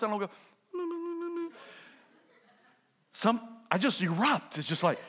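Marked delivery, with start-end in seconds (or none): 0.3-1.5 soft whimpering. Shown as a demonstration. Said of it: "I don't cry like this".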